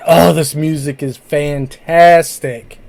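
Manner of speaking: slow, drawn-out enthusiasm, lightly acted; mock excited fan. Interviewer voicing a fan of new bands, mildly excited. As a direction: savour it like a delighted fan. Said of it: "that get you excited".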